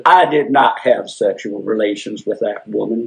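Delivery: a touch of a politician's denial; mock Clinton denial. Quoting Clinton's famous denial.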